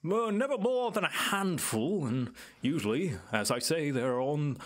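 lightly voiced island native, musing and lilting; knowing island elder. Island native tells visitors about the guardian, musing and lightly in character. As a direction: explain it as a well-spoken local guide. Game master plays Clyde.

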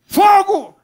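high, long-held shriek; very loud, high, stretched cry; possessed woman's scream. Retold or imitated. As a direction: shriek back as the demon in her. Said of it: "quando ela respondeu".

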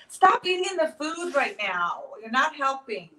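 fed-up telling-off; real exasperated scolding. Real, not acted. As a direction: lay down the law, each word drawn out. Scolding co-host for eating food.

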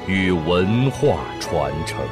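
ordinary delivery, nothing marked

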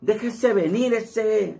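high, slow cholo slang drawl; cholo accent. Shown as a demonstration. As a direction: challenge them like a street cholo. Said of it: "Así habla más o menos".

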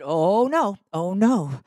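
loud insistent no; firm refusal. Retold or imitated. Generous woman refusing the man's repayment, loud and insistent. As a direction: refuse his money outright.

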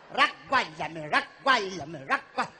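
low voice. Acted. Vecchia chiede notizie, scherzosa.

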